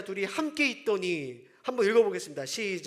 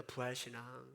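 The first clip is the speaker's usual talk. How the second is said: much softer, lower repeat; quiet echo; 9 semitones lower, 16 dB quieter than usual. Real, not acted. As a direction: let the word sink in softly. Quiet echo of key word. (낮고 조용하게 되뇌듯)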